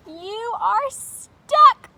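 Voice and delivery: high, loud, slow gleeful taunt; mocking taunt. Triangle laughing at Square stuck in the door, high slow taunt. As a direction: drag it out to tease him.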